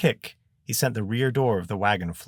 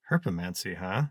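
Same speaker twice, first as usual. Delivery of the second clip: lightly voiced Bert; 4 dB quieter than usual. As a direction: repeat the term back, understated and questioning. Bert echoes the wizard's word.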